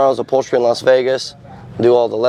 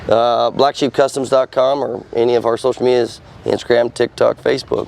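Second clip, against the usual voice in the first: smoker's rasp. Real, not acted. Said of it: "I sound like I've been smoking six packs a day".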